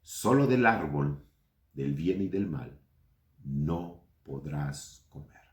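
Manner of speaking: solemne, lenta, bajando hasta un susurro; voz de Dios. Acted. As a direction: Dios advirtiendo con gravedad. Voz de Dios leyendo la instrucción. (voz de Dios que advierte, cada vez más baja y lenta)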